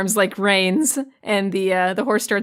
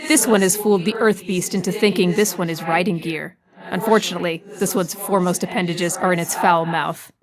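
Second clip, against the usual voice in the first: odd formal alien voice, even and stiff; a tentacled alien speaking of itself; lightly voiced formal alien; alien creature narrator. Alien Blasto's held voice.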